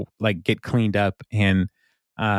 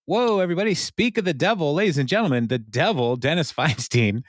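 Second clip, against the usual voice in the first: higher, showy crowd announcer; mock announcer intro; 6 semitones higher than usual. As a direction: present the villain to the crowd, pitched up. Leslie announcing Dennis to crowd.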